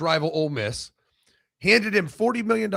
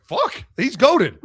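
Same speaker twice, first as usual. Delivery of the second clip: slow and louder, a stretched-out fan's gasp of awe; mock fan awe; 5 semitones higher, 6 dB louder, much slower than usual. Imagined fan marvels at the quarterback, slow mock awe. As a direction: drag it out like a stunned fan. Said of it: "You're like".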